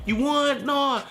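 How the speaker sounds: high coaxing reassurance; mock soothing. Brothers calming him down, high coaxing tone. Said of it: "they said".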